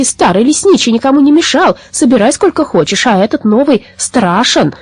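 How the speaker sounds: put-on high, lamenting old women; plaintive complaint. Old women grumbling about the frightening new forester, plaintive complaint.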